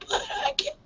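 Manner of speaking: very high squeaky falsetto; falsetto squeak. Shown as a demonstration. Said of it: "as high as I can go".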